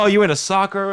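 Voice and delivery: imitating an American. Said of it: "they were just like".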